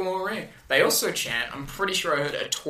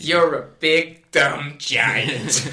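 mock Vicky yelling; 4 dB louder, much slower than usual. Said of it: "yells at him".

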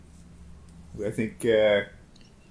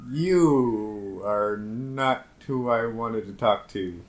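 drawn-out, unimpressed drawl; slow disdain; 4 dB louder, much slower than usual. Acted. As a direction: let every word drip with contempt. Player in character, insulting captain.

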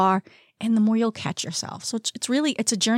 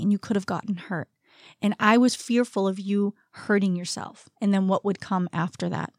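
soft, measured motherly apology; gentle reassurance; 4 dB quieter than usual. Retold or imitated. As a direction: explain it quietly to a child at bedtime. Mother retells apology at bedtime.

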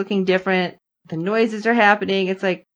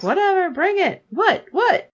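mock defiant Wynonna; 11 semitones higher than usual. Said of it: "And she's like".

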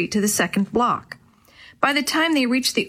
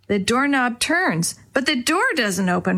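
ordinary delivery

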